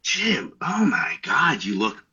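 mildly imitated horrified wife, drawn-out; aghast wife. Wife seeing husband come home sick, aghast. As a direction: lightly play the shocked wife, stretching "oh my God".

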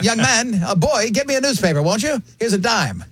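mock toff ordering a newspaper; condescending old rich man. Mocking a rich patron's voice.

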